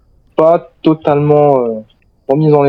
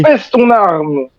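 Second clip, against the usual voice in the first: slow, higher, drawn-out command; slow order; 5 semitones higher, much slower than usual. Acted. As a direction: spell out each word firmly. Soldier ordering survivor disarm.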